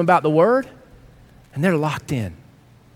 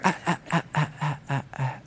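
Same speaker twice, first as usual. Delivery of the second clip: playful no-no; 4 semitones lower, 10 dB quieter than usual. Acted. Playful correcting of listener.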